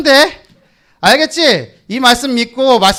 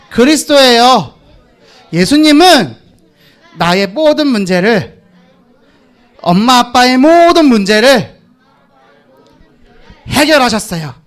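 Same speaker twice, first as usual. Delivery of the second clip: slow repeat; 3 dB louder than usual. Shown as a demonstration. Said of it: "자, 다시".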